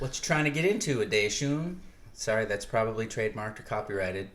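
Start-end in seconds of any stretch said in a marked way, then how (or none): 0.0-1.8 boxing announcer. Retold or imitated. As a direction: ring announcer hype. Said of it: "Please don't Michael Buffer me".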